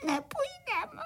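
put-on high, whimpering sobbing child voice; tearful, stammering little ones; crying crickets. Little crickets refusing the cart, sobbing in fear. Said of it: "malí cvrčci rozplakali".

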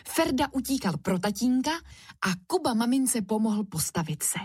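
ordinary delivery

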